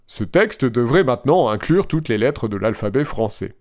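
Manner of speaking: flat, even machine voice; robot voice. Retold or imitated. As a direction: read it like a chatbot. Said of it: "avec ma belle voix de robot".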